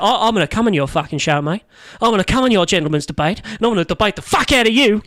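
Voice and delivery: a bad Australian accent; hammed-up Aussie bloke. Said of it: "You trying to do an Australian accent there?".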